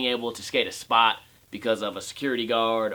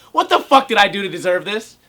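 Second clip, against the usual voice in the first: exasperated; 6 semitones higher, 6 dB louder than usual. Pretend. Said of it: "I do this thing with myself".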